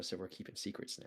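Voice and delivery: muttered whisper under the breath. Speaker acts out turning away and muttering under their breath: muttering under breath. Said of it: "mutter under my breath like".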